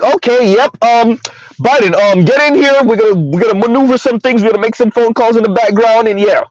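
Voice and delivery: mock party operative hastily taking charge; imitating party insiders. Acts out party insiders taking over.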